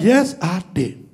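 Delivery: slow, measured admission; deliberate confession. Acted. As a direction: own up slowly and firmly. Deliberate confession, third time.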